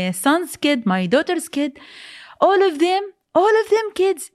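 high cries of disbelief, broken into pieces; distraught high questioning, not a full scream; retold screaming. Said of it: "another man came screaming".

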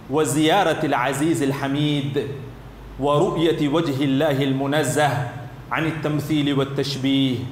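quick, measured classical Arabic reading; fluent formal Arabic citation; Arabic text recitation. Real, not acted. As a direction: recite the scholar's passage in steady rhymed phrases. Reads out Arabic book passage.

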